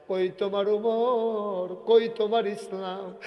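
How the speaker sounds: slow, drawn-out singsong lament; acted melodic wailing; child's plaintive wail. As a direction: plead to mother, stretching the vowels. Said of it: "বাচ্চা কান্দে আর কয়".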